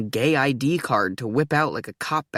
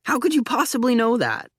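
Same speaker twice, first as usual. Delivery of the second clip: incredulous; 10 semitones higher than usual. Acted. High pitched challenge.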